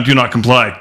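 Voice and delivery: shouted sign-off slogan; shouting. Acted. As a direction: bark the slogan out.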